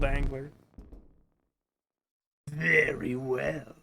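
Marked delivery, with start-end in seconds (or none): 2.5-3.8 lightly voiced game host.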